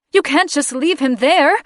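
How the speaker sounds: high, loud and shrill. Acted. Grieving mother to her sons, shrill and loud. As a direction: cry it out high and sharp. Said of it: "she said shrilly".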